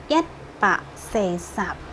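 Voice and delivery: teacher sounding out "Sesap"; Hokkien number. Shown as a demonstration. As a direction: model "Sesap" for students. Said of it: "gimana dengan seratus empat puluh".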